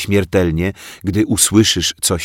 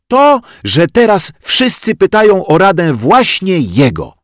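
put-on high, loud child's retort; blunt telling-off; 11 semitones higher, 7 dB louder than usual. A narrator's reading. Zosia tells Bodzio off to his face, loud and blunt. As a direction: throw it straight in his face. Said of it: "wygarnęła Bodziowi prosto w twarz Zosia".

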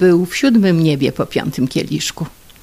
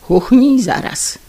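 higher, slow, demanding; wife ordering her husband to breathe at her, higher and slow; indignant order; 7 semitones higher, 4 dB louder than usual. Acted. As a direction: order him sharply. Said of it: "zawołała rozindyczona".

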